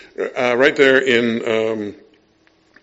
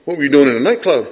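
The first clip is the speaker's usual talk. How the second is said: stern dad demand; 6 dB louder, faster than usual. Retold or imitated. Father scolds excited son.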